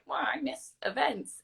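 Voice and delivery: high-pitched mock complaint; mock whining. Interviewer mimics able-bodied people missing events, mock whiny. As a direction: whine it in imitation of others.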